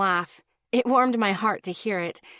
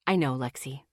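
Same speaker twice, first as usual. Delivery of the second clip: sighing; 7 semitones lower, 3 dB quieter than usual. Acted. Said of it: "he sighed".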